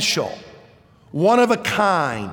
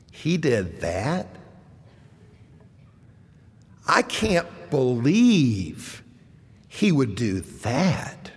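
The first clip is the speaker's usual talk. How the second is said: emphatic disbelief; 2 semitones lower than usual. Shown as a demonstration. Preacher shows the congregation how to say it with emphasis. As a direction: sound truly astonished, dragging each word. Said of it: "so let's say it with an emphasis".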